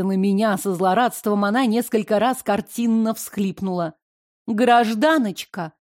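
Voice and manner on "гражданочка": stern. Acted. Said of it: "строго начала я".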